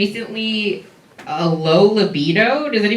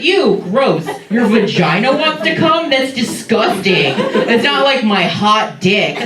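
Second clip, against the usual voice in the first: mocking disgusted dudes; 4 semitones higher than usual. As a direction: ham up their disgust, stretching it out. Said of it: "they're just like".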